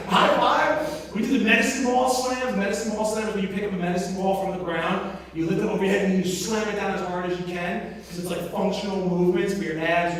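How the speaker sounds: ordinary delivery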